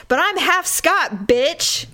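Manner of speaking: loud, cocky boast; too loud. Retold or imitated. Boasting to the table about being Scottish, loud. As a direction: blurt it out proudly, a bit too loud. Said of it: "And I said it really loud".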